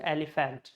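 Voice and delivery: elephant as eli-fant, full vowels; teacher's old pronunciation. Retold or imitated. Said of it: "That's how I was taught by my teacher".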